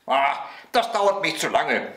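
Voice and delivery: put-on high, whiny little boy complaint; impatient child. A narrator's reading. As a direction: complain like a child tired of waiting.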